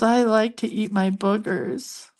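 imitated grandson. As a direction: imitate a small kid's proud confession. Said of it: "He goes".

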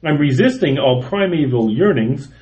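poem reading. Acted. Reading his humorous poem to podcast co-hosts, performed reading. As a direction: read it out with a bouncing meter, savoring the jokes.

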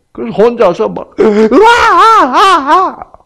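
high, loud, slow stretched crying; mock toddler bawling. Child crying alone with no mom home, loud hammed-up wail.

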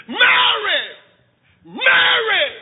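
high, long call across the hills; calling Mary. Acted. John coming home calls his wife, a high far call. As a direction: call her name from far off, high and loud. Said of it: "he started screaming".

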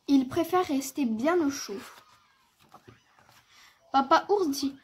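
measured, articulate storytelling with lively emphasis; children's story narration. A narrator's reading. Narrator telling of Petit ours brun's snowy morning, story-reading voice. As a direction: read it aloud for small children.

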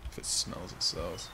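whispered, deflated repeat of the motto; mocking whisper. Real, not acted. Streamer mockingly repeating the fisherman's motto, whispered. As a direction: mutter the motto back, unimpressed. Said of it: "That's a bad motto".

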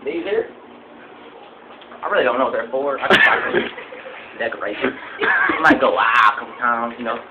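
rambling backwoods trophy-room tour guide; lightly voiced country hunter; hillbilly hunter character. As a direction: play a proud, dim redneck hunter showing off.

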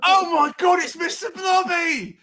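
high, loud, thrilled cries of locals spotting a celebrity; excited pub crowd. Pretend. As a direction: squeal it out like a gobsmacked villager. Pub crowd spots Mister Blobby.

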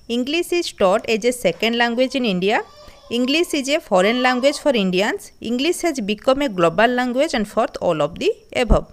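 slow, deliberate reading of exam options; slow question reading. Shown as a demonstration. Teacher reading exam options to students, slow and deliberate. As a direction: read each option out slowly and evenly.

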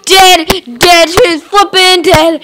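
high, punchy exclamations; loud crowing. Real, not acted. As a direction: shout it out repeatedly. Crowing over the death.

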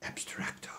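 breathy whispered aside. Acted. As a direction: whisper it secretly. Secretive aside.

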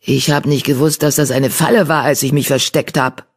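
understated frightened confession; shaky mew. Acted. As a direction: confess with a touch of a tremble. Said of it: "Ein zittriges Miauen".

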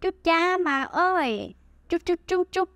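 emotional local exclamation; Huế shock exclamation. Shown as a demonstration. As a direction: toss out each "Chú" like mock shock. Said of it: "We say".

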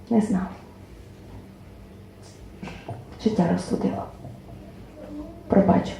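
measured lyrical reading, dropping to a hush at refrains; poem recital. Acted. Poet reads her poem to the audience, lyrical recital. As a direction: tell the story in verse, tender and rueful.

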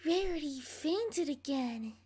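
flat bored low take; unimpressed low voice. Acted. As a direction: say it low and unbothered. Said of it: "My first try voice was so low".

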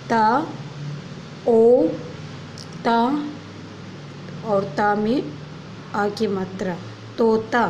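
teacher spelling तोता aloud; sounding out words. Shown as a demonstration. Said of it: "spelling तोता".

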